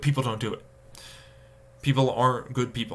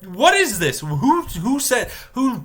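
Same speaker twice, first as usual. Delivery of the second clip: high exasperated; 10 semitones higher, 3 dB louder, slower than usual. Retold or imitated. Continues the outraged quote.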